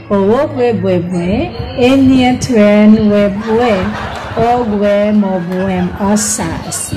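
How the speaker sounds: careful, slightly slow run-through; slowly but surely. Shown as a demonstration. Streamer showing she can say the name, slow and steady. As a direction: ease steadily through each group of the name. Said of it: "Slowly but surely".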